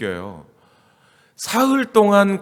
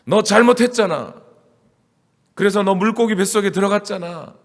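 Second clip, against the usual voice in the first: raised, louder mock scolding; 꾸짖기; 4 semitones higher, 4 dB louder than usual. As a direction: tell off the wrongdoer like a parent. Acted scolding, likened to children. (목소리를 높여 야단치는 흉내)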